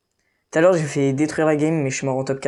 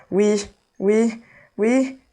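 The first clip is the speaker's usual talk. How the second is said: excited yes; 6 semitones higher, 3 dB louder, much slower than usual. Real, not acted. Excited celebration.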